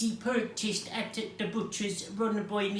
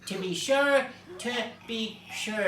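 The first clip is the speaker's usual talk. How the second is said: put-on Irish accent; 2 semitones higher than usual. Storyteller's aside in the book reading, Irish accent. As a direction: say it in a mock Irish accent, easing off. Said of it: "we'll be doing it in an Irish accent".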